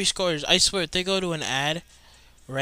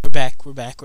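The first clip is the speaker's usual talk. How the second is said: excited shout; 18 dB louder than usual. Real, not acted. Game returns from ad.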